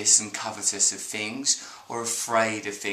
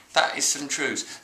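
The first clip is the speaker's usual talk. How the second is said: slow, lightly voiced sage; Eckhart Tolle impression; slower than usual. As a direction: drawl out the truth like a guru. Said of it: "He talks like that".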